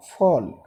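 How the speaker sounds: "फॉल" with a rounded aw, falling; correct rounded vowel. Shown as a demonstration. Teacher repeating the right form for students, rounded vowel. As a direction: say "फॉल" as fawl. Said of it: "फॉल होता है".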